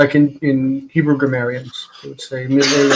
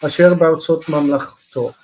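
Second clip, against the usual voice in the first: quick, fluent Hebrew text reading; chanting through the Esther verse; scripture reading; much faster than usual. Acted. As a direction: rattle off the biblical verse at speed. Reads Hebrew scripture aloud.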